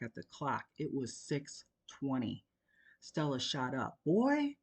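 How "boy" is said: loud high angry call; mother growls at her son; growled warning. A narrator's reading. An angry mother. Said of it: "Stella growled".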